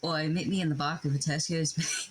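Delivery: put-on rough British accent; mock-threatening British street talk. Shown as a demonstration. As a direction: play a British Tesco tough. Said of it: "you can do a British accent".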